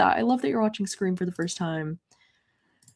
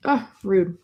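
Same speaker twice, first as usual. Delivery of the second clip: whispered aside. Real, not acted. Search result disappears.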